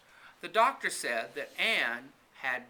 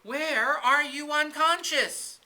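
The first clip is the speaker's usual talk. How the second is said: higher, louder and slow, a lightly acted anxious wail; distressed wail; 11 semitones higher, 9 dB louder, slower than usual. Carrie asking fallen Anne, lightly acted distressed wail. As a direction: plead in mock distress, drawn out.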